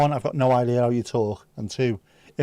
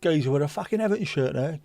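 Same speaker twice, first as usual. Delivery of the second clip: cockney; 3 semitones higher than usual. Retold or imitated. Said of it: "a load of these cockneys".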